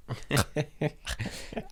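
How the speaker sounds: high, voiceless choked laughing; imitated choking laugh. Retelling laughing with sandwich in the throat, mock choking. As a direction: mimic laughing while choking. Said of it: "I'm choking and dying and laughing, just like".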